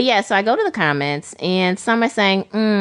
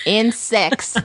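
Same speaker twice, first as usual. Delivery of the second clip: "Insects" said higher through a laugh; 5 semitones higher than usual. Real, not acted. Repeats the quoted word, laughing.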